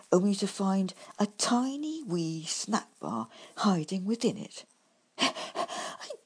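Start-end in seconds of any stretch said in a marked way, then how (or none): 5.2-6.1 loud, disgusted outrage, rising high; snorting in disgust. A narrator's reading. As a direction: spit it out, disgusted at the price. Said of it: "I snorted in disgust".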